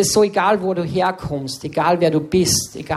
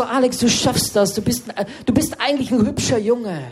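higher, sweet encouraging teacher, half laughing; teacher again; 5 semitones higher than usual. Retold or imitated. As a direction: gush at the boy like the hippie teacher. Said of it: "die hat mich dann immer so genommen". (Lehrerin am Gang, süßlich höher und lachend)

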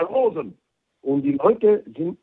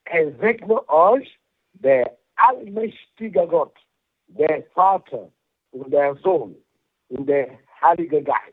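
liturgical blessing. Real, not acted. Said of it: "darf ich Sie noch um den Segen für unsere Hörer bitten".

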